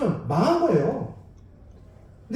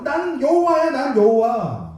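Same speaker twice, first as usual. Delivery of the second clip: emphatic God's declaration; 4 semitones higher, slower than usual. Retold or imitated. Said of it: "그렇게 말해요".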